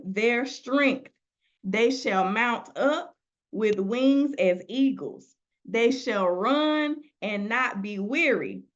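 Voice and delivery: slow, measured scripture reading; solemn Bible reading from the pulpit. Acted. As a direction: read the verse slowly, letting each line land. Reads scripture aloud slowly.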